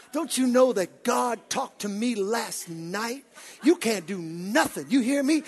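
cocky street challenge; defiant taunt. Acted. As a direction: dare them to try. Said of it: "I don't know if he talked like that".

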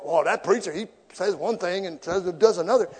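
sniping hypocrite accusation, hammed up; mock critic. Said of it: "don't go".

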